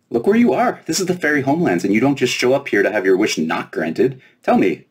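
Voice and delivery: high, pushy fairy demand; fairy insisting. Acted. Fairy pressing Lena to tell her wish, high and insistent.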